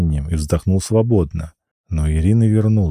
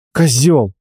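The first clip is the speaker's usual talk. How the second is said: shouted insult; 6 semitones higher than usual. Acted. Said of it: "крикнула она".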